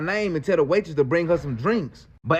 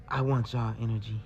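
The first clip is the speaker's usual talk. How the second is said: eerie whisper; 9 semitones lower, 9 dB quieter than usual. Retold or imitated. Woman whispering her strange request again. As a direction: lower and much softer, hushed. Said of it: "she whispered something again".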